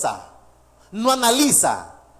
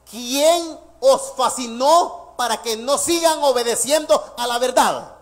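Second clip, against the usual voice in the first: slow rhetorical question; slower than usual. Acted. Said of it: "Pablo les está preguntando".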